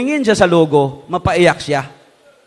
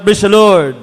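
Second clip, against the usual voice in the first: shouted call. Shown as a demonstration. Preacher leads congregation in a shouted call and response. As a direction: lead the crowd's shout of praise.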